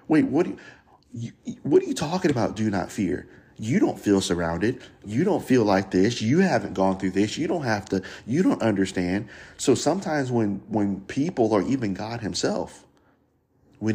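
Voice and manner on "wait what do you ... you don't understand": mock protest, pitch leaping up at first; a touch of exasperated pushback; mildly indignant. Frustrated believer answers whoever says do not fear, mildly indignant. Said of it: "get even madder".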